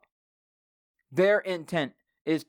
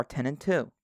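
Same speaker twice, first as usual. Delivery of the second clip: quick whisper tacked onto the end; whispered aside; 2 semitones lower than usual. Acted. Podcast host whispers a driving joke to listeners, whispered.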